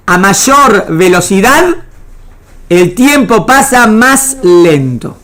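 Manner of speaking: slow and deliberate, each word weighed; teacher slowing down to stress the point; slow, emphatic. Shown as a demonstration. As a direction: spell out the key idea slowly for the class. Teacher stressing key physics point.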